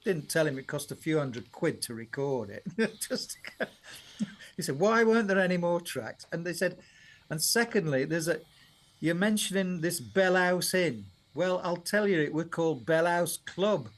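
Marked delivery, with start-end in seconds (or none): 4.8-6.2 lightly imitated Yorkshire father; a touch of broad Yorkshire complaint; Yorkshire accent. Father questioning son about his CD, mock Yorkshire accent. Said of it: "Yorkshire accent". 7.3-13.9 lightly imitated Yorkshire dad; a hint of Yorkshire father setting things straight; Yorkshire accent. Father correcting son's lyrics, retold in Yorkshire accent. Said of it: "Yorkshire accent".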